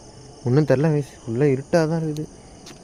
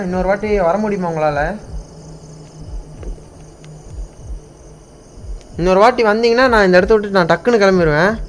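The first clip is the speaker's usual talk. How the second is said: loud, earnest call; begging the spirit to appear, loud; loud pleading; 2 semitones higher, 3 dB louder than usual. Real, not acted. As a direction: beg the spirit to show herself. Begging ghost to appear again.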